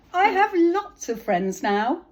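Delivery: high, loud and slow happy shout; very loudly. Acted. Little Beaver happily shouting his news, very loudly. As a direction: shout it across the pond with joy. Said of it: "very loudly".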